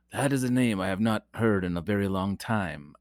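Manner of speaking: a lightly voiced wise old Jedi, barely shifted from his own voice; Obi-Wan Kenobi impression. Podcast host cueing a movie line for his co-host, a light mock Obi-Wan. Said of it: "the Obi-Wan Kenobi".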